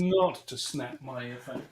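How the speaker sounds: whisper. Real, not acted. Trying not to snap earphone.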